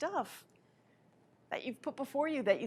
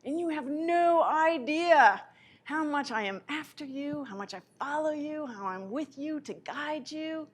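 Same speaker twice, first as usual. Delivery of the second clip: slow, higher, louder loving divine voice; voicing God; 3 semitones higher, 6 dB louder than usual. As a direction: speak as God, slow and swelling with love. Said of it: "God is saying to you".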